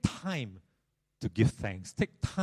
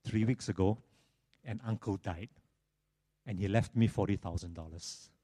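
low, subdued, mildly mournful telling; sad guy; 5 semitones lower, 6 dB quieter than usual. Acted. Sad man explains himself to his old friend, mildly downcast. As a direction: play a downcast man, softer and lower. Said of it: "this sad guy says".

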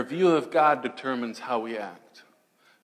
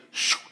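quick airy "shoo" whoosh; whooshing sling noise. Retold or imitated. David slinging a stone at Goliath, imitated whoosh.

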